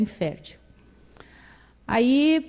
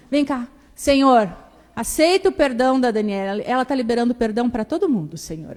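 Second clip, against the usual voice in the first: mock prayer; 2 semitones higher than usual. Grandmother praying aloud.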